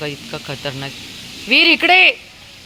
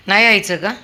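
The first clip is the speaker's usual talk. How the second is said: loud question; 5 semitones higher, 8 dB louder than usual. Real, not acted. Asking dog.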